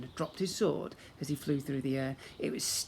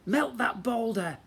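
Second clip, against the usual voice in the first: slow, high, eager urging; 8 semitones higher, 4 dB louder, slower than usual. Acted. Dad hopping with excitement.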